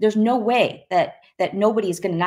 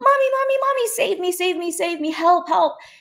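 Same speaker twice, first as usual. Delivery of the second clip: put-on very high small child's voice, little girl; 11 semitones higher than usual. Retelling what came out of them on the phone with mom: little girl's voice. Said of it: "this little girl's voice comes out of me".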